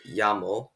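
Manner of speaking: llamo with the double L said as Y; ya sound. Shown as a demonstration. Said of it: "pronounced it with a ya sound".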